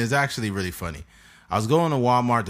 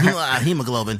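Simpsons nerd voice; 3 semitones higher, 3 dB louder than usual. Retold or imitated. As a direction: squeak it like a cartoon nerd. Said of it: "You know the dude from The Simpsons, the nerd".

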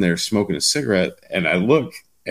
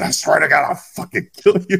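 much higher, louder furious threat; threatening; 8 semitones higher, 3 dB louder than usual. Retold or imitated. A man pinning a teen to the wall, furious threat. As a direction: threaten him with a yell. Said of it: "I said".

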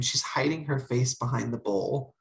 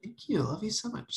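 soft, higher-pitched gratitude; touched thanks; 9 semitones higher, 5 dB quieter than usual. Retold or imitated. Replying to accepting mom, re-enacted soft thanks.

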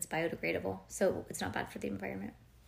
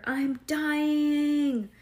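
hammed-up dying groan, higher and louder; 7 semitones higher, 9 dB louder than usual. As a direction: play dead dramatically. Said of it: "she coughed in a dying sort of way".

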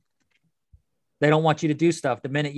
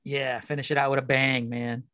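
stoner voice; 2 semitones lower, 4 dB quieter than usual. Real, not acted. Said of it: "Why do you say that like a stoner".

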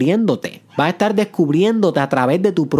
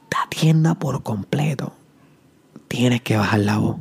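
breathy whisper demo; hushed whispered tip; 4 semitones lower, 3 dB quieter than usual. Shown as a demonstration. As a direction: whisper it so they lean in.

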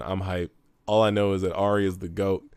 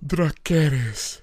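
dragon command; 4 semitones higher, 4 dB louder, much slower than usual. Pretend.

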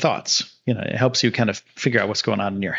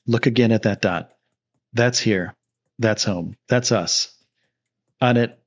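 lightly voiced measured, wonder-filled narrator; Carl Sagan voice. Streamer doing the Pale Blue Dot for chat, lightly voiced Carl Sagan. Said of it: "something like this".

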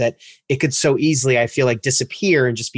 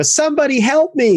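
much higher, louder mock cry for help; Marion Davis cry for help; 14 semitones higher, 5 dB louder than usual. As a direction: call for help like a damsel in a talkie. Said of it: "it was Marion Davis".

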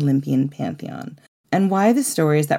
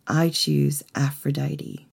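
slow, soft and syrupy; 4 dB quieter, slower than usual. Acted. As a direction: drip it out like honey. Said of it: "his voice was slow and syrupy".

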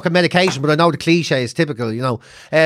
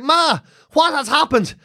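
higher, slow, anxious plea; imitated alarm; 5 semitones higher, slower than usual. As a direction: press mum for an answer, mock-alarmed. Alarmed child to breathless mother.

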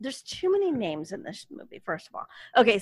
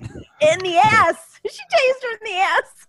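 high, drawn-out amused exclamation; loud, high-pitched comic relish; gleeful outburst; 13 semitones higher, 7 dB louder than usual. Real, not acted. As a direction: crow it in disbelief, with a laugh. Gleeful reaction to absurd taser death.

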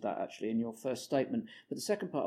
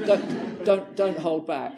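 laughing; 5 semitones higher, 8 dB louder, much slower than usual. Real, not acted. Host laughs urging panelist.

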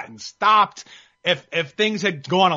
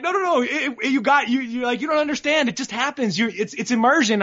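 mock-defensive, much higher pitch; defensive protest; 4 semitones higher, faster than usual. Expat answering his friends, hammed-up defensive. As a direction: protest a bit too much, half-joking. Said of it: "And you're like".

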